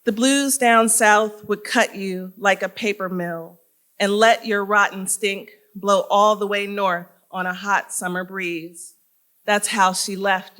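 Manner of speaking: measured, deliberate poem recital; poetry reading. Acted. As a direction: read it as a poem, phrase by phrase with pauses. Reads own poem aloud.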